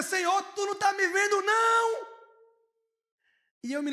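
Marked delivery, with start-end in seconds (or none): 0.0-2.1 crying out. Retold or imitated. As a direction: cry it out to the Lord. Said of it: "o profeta começa a dizer".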